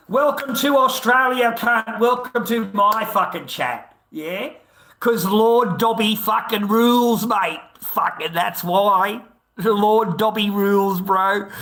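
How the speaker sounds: loud ranting boast to chat; angry shouting. Real, not acted. Streamer shouting down his chat, loud and angry. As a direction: yell it at the chat like you own it.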